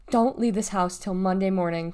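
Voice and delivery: ordered. Acted. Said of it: "Clarice ordered".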